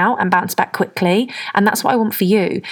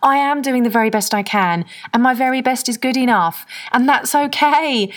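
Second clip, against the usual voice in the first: uplifted affirmation; 5 semitones higher than usual. Shown as a demonstration. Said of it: "Even saying that to myself".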